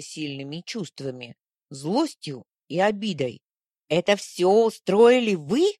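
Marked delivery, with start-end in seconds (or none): 3.9-5.7 grumbling accusation. A narrator's reading. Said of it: "проворчала я".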